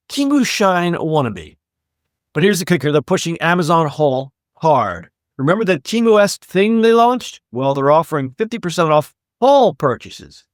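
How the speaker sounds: lively podcast news read; scripted segment read. Acted. Host presents the sale story to listeners, scripted read. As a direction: read the story out with upbeat emphasis.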